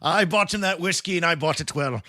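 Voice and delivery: lively mock Irish storytelling; put-on Irish accent. Podcaster finishing his bar story for his co-host, in an attempted Irish accent. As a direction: carry on the tale in an amateur Irish lilt. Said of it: "but do it in an accent".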